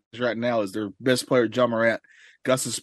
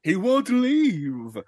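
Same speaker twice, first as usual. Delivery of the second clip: gruff mountain man; 7 semitones higher, much slower than usual. Acted. Prospector voice again.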